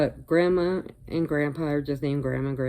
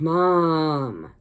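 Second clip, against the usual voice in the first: exasperated daughter; 5 dB louder than usual. Retold or imitated. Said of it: "she's like".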